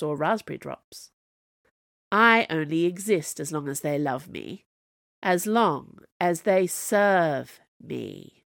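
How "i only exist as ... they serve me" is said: sneering. Acted. Camilla mocking the Snow Queen, sneering. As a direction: sneer it back at her. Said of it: "Camilla sneered".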